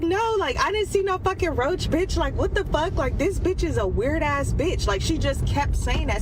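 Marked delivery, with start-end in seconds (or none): 0.0-4.9 mock outraged squeal, much higher; high, squeaky mock outrage; high indignant friend. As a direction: play the offended friend, pitched way up. Friend's high-pitched indignant quote.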